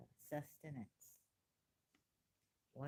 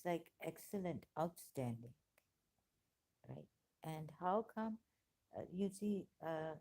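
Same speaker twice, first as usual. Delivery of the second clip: ordinary delivery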